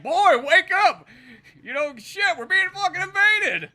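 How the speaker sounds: hammed-up panicked yell, high pitched; alarmed shout. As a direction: drag out a mock alarm cry to wake someone. Acting Bill raising the alarm.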